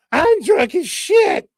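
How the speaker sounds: high, slow slurred voice; drunk slurring voice. Pretend. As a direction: slur it slowly, drunk. Mock voice of Pelosi.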